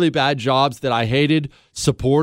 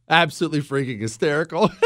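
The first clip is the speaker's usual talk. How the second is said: laughing; faster than usual. Real, not acted. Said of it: "I'm laughing so hard".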